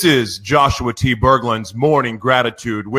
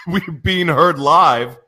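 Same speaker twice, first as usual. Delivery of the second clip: laughing; 7 semitones higher, slower than usual. Real, not acted. Repeats it, laughing.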